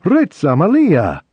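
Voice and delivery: gardener's happy fake Italian call; happy shout. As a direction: call out cheerfully across the grass. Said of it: "shouts happily".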